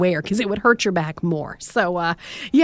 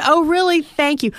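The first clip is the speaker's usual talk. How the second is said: sarcastic thanks; 5 semitones higher than usual. Retold or imitated. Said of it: "I said".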